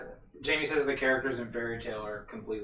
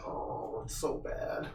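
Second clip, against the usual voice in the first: whispering; 8 dB quieter, much slower than usual. Real, not acted. Reacting after the impression.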